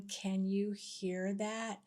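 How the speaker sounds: softly voiced mock whisper, slow; retold whisper. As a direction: ask it quietly and slowly, as if secretly. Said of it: "I whispered to Yvonne".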